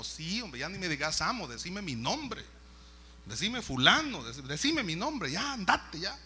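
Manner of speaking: mildly exasperated master; acted impatience, pushing him to go; impatient insistence. Master impatiently insists on informal address.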